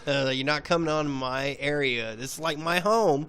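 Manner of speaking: retold defiance. Retold standoff with stranger.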